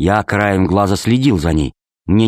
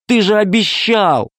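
put-on crying child; 10 semitones higher than usual. A narrator's reading. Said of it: "ревела Алиса".

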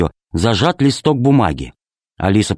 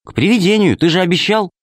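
put-on high reproachful girl's voice; a little girl holding dad to his promise; 8 semitones higher than usual. A narrator's reading. Alice reminds father. (обиженный голос девочки)

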